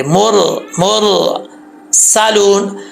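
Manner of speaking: मुर with a full, heavy ra. Shown as a demonstration. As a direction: read मुर thick and full. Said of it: "तो इसको पुर पढ़ेंगे।".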